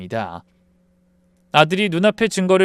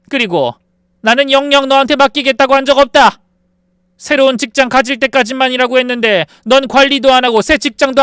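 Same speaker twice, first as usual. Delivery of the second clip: higher, louder, laying down the law; mother firing her son and daughter-in-law, shouting; furious mother; 10 semitones higher, 8 dB louder than usual. Acted. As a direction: fire them both in a raised voice.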